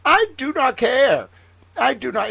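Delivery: loud, high mock tantrum; retold defiance. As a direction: hit every word like a stubborn child. Retold defiance, six-year-old to teacher.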